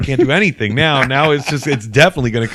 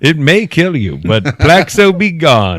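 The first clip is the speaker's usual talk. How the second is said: fake ad announcer; 2 semitones higher, slower than usual. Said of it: "fake commercials".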